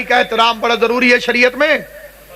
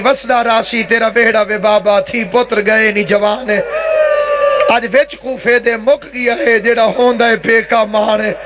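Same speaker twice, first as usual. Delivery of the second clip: tearful lament; 2 semitones lower than usual. Retold or imitated. Preacher retelling Zainab's weeping words for her father, mournful lament. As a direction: imitate a grieving daughter's lament, understated. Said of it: "رو رو کے کہتی تھی".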